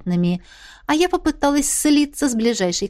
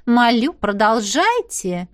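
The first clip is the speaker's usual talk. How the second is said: purring princess; slower than usual. Acted. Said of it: "мурлыкнула она".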